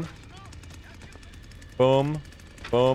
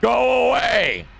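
panicked yell; 12 semitones higher, 5 dB louder, much slower than usual. Real, not acted. Monster approaching, yelling at it.

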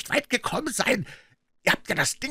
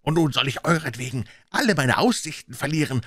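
high, agitated harangue; exasperated rant; 8 semitones higher than usual. A narrator's reading. Blind leader to dithering gang, exasperated rant. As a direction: shame the hesitant men with rising frustration.

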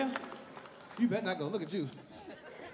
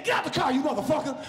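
mock angry cop yell. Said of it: "was mad and said".

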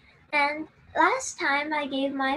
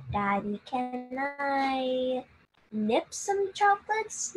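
begging little sister; slower than usual. Retold or imitated. Little sister asking dad again, slow wheedling plea. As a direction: stretch the ask out sweetly. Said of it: "so desperate".

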